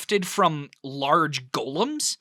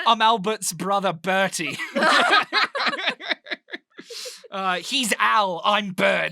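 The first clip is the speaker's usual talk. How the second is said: giggling while joking about the slip; laughing at his own accent slip; laughing through it; 3 semitones higher than usual. Real, not acted. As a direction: lines broken up by real laughter. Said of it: "jokes about the accent slip".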